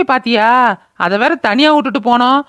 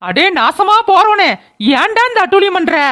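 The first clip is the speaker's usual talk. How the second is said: angry cursing; 4 semitones higher than usual. Acted. Mother cursing her drunken son, angry high wail. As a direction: curse him out, drawing the words long.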